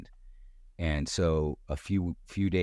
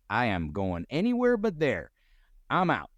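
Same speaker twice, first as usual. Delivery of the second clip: agitated refusal; 7 semitones higher than usual. Retold or imitated. Himself refusing to go back.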